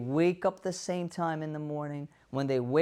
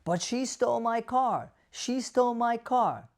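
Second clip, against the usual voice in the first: fixated complaint; 5 semitones higher than usual. Acted. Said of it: "your loved one is fixated on".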